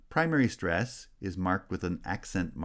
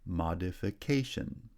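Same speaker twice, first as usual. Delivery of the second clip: main stress on "ca" in "Modification"; "Modification", lighter first stress, strong fourth syllable; fourth-syllable primary stress. Shown as a demonstration. Teacher showing stress shift, fourth syllable strongest in "Modification". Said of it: "primary stress has shifted to the fourth".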